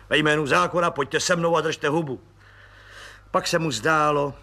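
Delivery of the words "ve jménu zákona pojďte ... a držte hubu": firm police command; stern detective. Acted. Imagined detective arresting a spy, stern. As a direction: arrest him bluntly. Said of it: "náhle vykročí se slovy".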